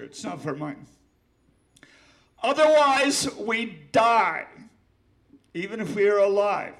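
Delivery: shouting the last lines of his poem; poem climax. Acted. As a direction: cry out the warning.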